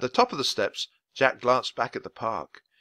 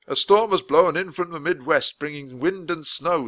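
a hint of a grave official; lightly voiced weather man, worried; 6 semitones higher, 5 dB louder than usual. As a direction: warn them gently but seriously. Voice of Mister Perkins.

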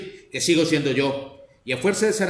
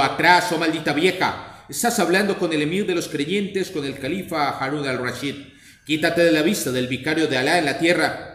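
angry shout. Acted. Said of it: "le gritó".

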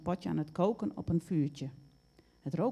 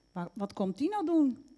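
high-pitched, agitated question; excited; 8 semitones higher, 4 dB louder than usual. A narrator's reading. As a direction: stumble eagerly into the question. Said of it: "zei ze opgewonden".

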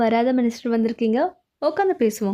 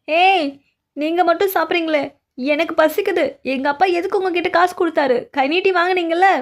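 angry yelling; 5 semitones higher than usual. Acted. Hungry prisoner scolding the guards, shrill yell. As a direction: shout at the guards who ate without her.

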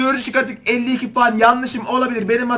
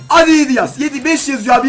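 loud, high cry at the dice; cheering the roll on; excited shout; 3 semitones higher, 6 dB louder than usual. Real, not acted. Zar atarken heyecanla bağırıyor. (heyecanla bağırarak)

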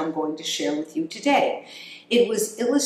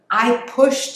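much higher, louder proud squeak; proud hamster voice; 6 semitones higher, 6 dB louder than usual. Acted. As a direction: crow it like a proud little hamster.

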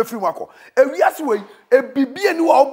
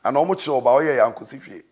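soft pleading; 7 semitones lower, 6 dB quieter than usual. Acted. Preacher drops to soft pleading.

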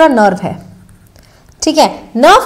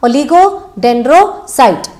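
slow drilled term; much slower than usual. Shown as a demonstration. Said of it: "ततर ततर तो नहीं कर रहे हो".

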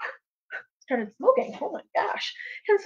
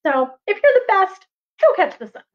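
fed-up bear; 7 semitones higher than usual. Acted. The bear, fed up with the raven, dares him. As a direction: throw down the challenge. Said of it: "got fed up and was like".

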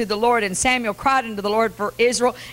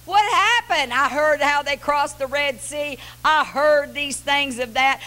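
a hint of a desperate Gideon; 5 semitones higher than usual. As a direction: plead with God, climbing to a cry at the end. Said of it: "And he's going".

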